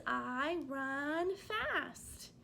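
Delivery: slow, clear example sentence. Shown as a demonstration. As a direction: spell it out slowly for the class. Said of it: "use the sentence".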